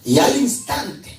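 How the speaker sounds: "al instante" pitched high and slowed; énfasis en INSTANTE. Real, not acted. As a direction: hit "al instante" high, drawn out. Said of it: "siempre esta palabrita, "y al instante". ("al instante" alto, alargado y enfático)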